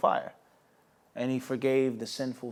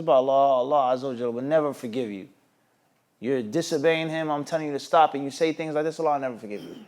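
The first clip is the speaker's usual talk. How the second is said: zealous anger; faster than usual. Retold or imitated. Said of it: "he became angry and he became jealous".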